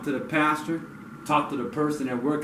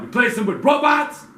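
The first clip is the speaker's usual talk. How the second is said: scornful; 9 semitones higher than usual. Real, not acted. Scornful rhetorical question.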